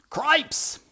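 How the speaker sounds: high, loud squeaky shout; shouted mouse. Acted. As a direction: blurt it out in alarm like a mouse. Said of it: "shouted Furlow again".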